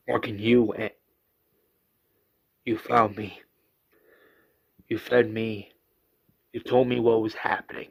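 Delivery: low, measured acted appeal; earnest reminding. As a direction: reach him gently, one fact at a time. Rick earnestly reminds Morgan.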